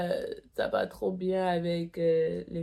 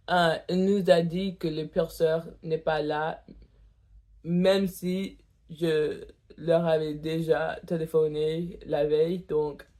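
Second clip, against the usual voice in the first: tongue piercing. Real, not acted. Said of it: "pardon, je crache trop".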